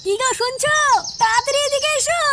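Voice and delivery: high-pitched yell from a distance; calling out urgently. Acted. Wife summoning husband over missing money, calling out urgently. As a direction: call your husband over, pitch climbing. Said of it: "এত চিল্লাচ্ছ কেন?".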